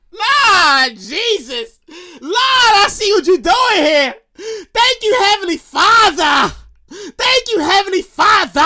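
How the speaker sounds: drawn-out hammed-up testimony; mock church praise. Thanking Heavenly Father for imagined cash, mock praise. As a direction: cry out thanks with stretched vowels.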